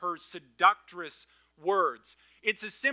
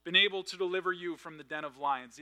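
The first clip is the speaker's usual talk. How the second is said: higher, fast, anguished calling out; anguished cry; 3 semitones higher than usual. Acted. King calling to Daniel at the den, anguished cry. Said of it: "He cried out in a tone of anguish".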